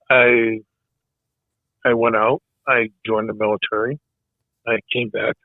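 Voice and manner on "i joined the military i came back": losing his voice, hoarse and fading; rough, tired hoarse voice. Real, not acted. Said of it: "Sorry, I'm losing my voice".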